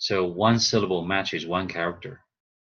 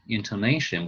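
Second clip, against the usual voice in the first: intonation with NA stressed; intoNAtion, leaning on the syllable before last; stress on second-to-last syllable. Shown as a demonstration. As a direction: rise on the NA of intonation. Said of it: "it's the second to the last".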